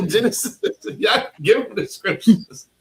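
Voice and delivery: high-pitched, laughing hype; laughing cheer. Real, not acted. Teacher urges student to give scriptures, laughing excitedly. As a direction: laugh through the excited words.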